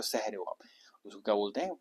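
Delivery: whispered, coaxing the answer out; whispered prompt. Shown as a demonstration. Teacher whispers a prompt so students answer. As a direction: drop to a whisper to prompt the class.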